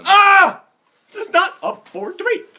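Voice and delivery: very high, loud yell; mock outburst. Friend cutting off a debate, high mock screech. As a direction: shriek it to shut down the argument.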